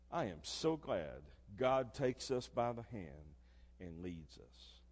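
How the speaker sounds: soft, slow and low; tender. Acted. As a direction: linger gently on the hand. Tender reflection on God's guidance.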